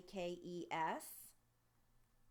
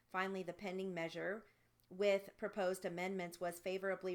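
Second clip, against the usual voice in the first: dictation reading; 4 dB louder than usual. Acted. Reads passage for dictation practice.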